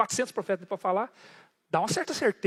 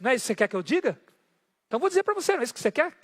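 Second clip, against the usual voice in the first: mocking, much higher in pitch; ironic; 4 semitones higher, 4 dB louder, faster than usual. Prophet needling the king, higher mocking tone. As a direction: taunt him with what he wants. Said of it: "É como se Micaías dissesse".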